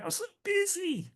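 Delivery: mock agent's busy excuse, in a high imitating voice; mock whiny agent. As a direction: mimic an agent making excuses in a high whine. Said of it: "That's a good one".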